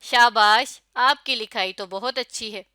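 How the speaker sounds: a cheerful shabash, then gentle praise; warm praise. Shown as a demonstration. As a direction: praise it warmly, with feeling. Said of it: "ایک بالکل ہی الگ تاثر پڑ گیا". (گرم جوشی سے شاباش)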